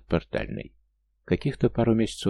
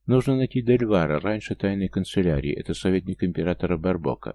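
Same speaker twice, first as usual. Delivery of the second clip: ordinary delivery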